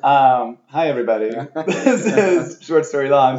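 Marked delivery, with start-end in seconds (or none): 1.7-3.4 laughing. Real, not acted. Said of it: "my little radio voice".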